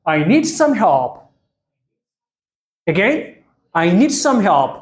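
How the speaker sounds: slow, drawn-out lead for the class to repeat; slow choral model. Shown as a demonstration. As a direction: say it slowly together with the learners. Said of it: "ብሓባር ክንብላ ንኽእል ዲና?". (ምስ ተምሃሮ ብሓባር ቀስ ኢልካ)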